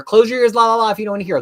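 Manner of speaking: high, singsong warning; playful spoiler warning. Pretend. Host warning viewers before a spoiler, playful singsong.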